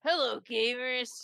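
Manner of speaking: slow drawn-out YouTuber greeting; imitating MatPat. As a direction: greet gamers like a YouTuber, slowly. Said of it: "Just that over and over again".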